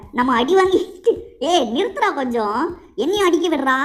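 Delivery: laughing complaint. Real, not acted. Getting beaten, pleading with enemy.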